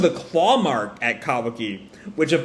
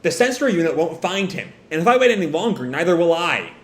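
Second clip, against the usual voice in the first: higher, mildly heated retort; snapping back; 3 semitones higher than usual. Acted. Boruto defying his father's order, snapping back. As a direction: argue back with some urgency. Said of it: "Boruto snaps back".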